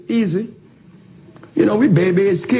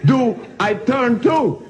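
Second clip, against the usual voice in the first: laughing; 8 semitones higher, slower than usual. Real, not acted. Mock helpless question, laughing.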